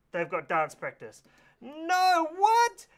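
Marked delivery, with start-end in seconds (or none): 1.6-2.8 squeaky, much higher cry of disbelief; mock shock. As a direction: pop up high and loud, hammed-up surprise. Dance practice forgotten, mock dismay.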